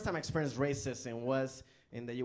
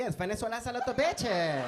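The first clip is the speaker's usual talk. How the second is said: broken English; 8 semitones higher, 6 dB louder than usual. Retold or imitated. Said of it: "I'm like".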